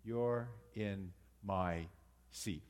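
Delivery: slow, dry sarcastic greeting. Retold or imitated. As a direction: say it with mock unwelcome. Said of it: "This is said sarcastically".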